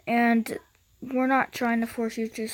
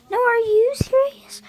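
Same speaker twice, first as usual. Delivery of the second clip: higher, louder shrieked question; high shout; 11 semitones higher, 6 dB louder than usual. Acted. State kid shrieking back at the other state. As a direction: shriek the line in disbelief.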